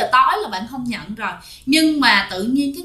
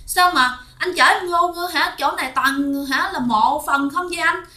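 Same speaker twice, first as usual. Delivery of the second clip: higher-pitched, alarmed protest; retold fearful complaint, pitched up; frightened wife; 5 semitones higher than usual. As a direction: voice a scared wife pleading with her husband. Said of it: "Thì bạn sợ".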